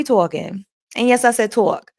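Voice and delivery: a touch of New York in "talk"; light put-on New York accent. Shown as a demonstration. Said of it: "That's my New York accent".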